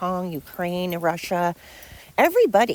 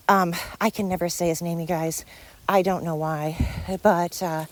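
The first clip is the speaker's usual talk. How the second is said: winded, talking between breaths; short on air after talking. Real, not acted. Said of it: "God, I'm out of breath".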